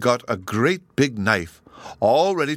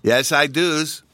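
put-on child voice; 5 semitones higher, 3 dB louder, slower than usual. Child Bruno answers eagerly.

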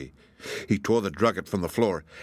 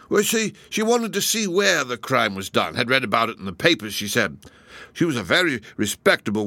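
nervous constable; 3 semitones higher than usual. Acted. Constable's story.

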